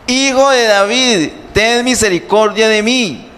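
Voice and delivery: urgent high cry for mercy; acted beggar's plea, pitched well up; clamoring harder. A narrator's reading. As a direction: cry out insistently over those hushing you. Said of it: "pero él clamaba mucho más".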